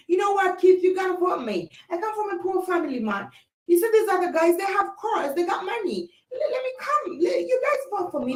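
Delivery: a hint of a wheedling politician; candidate pleading for votes. Acts out candidate begging for votes.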